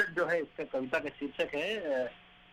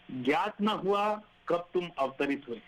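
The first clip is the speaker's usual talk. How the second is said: poem recitation; 2 semitones higher than usual. Acted.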